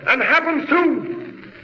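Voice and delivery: urgent warning. Acted. Jor-El warns the council that Krypton will explode, urgent. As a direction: insist on the coming disaster.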